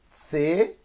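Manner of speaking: TSEVA split slowly into two separate syllables; slow syllable-by-syllable reading. Shown as a demonstration. Teacher sounding out Tseva for Hebrew learners, slowly. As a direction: say "Tseva" slowly, sounding the first vowel fully. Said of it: "vou ler devagar, depois eu leio o correto".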